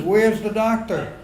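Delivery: loud, high mock panic yell at the nurses; mock screaming. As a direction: yell in hammed-up outrage about the ugly baby. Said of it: "I go screaming".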